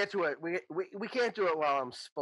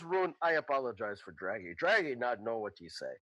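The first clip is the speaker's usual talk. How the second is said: apologetic Boom Boom; 5 semitones lower than usual. Acted. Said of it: "and he goes".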